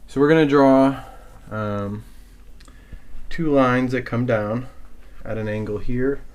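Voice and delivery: winded, catching breath between phrases; talking while still panting. Real, not acted. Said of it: "I'm out of breath from running downstairs".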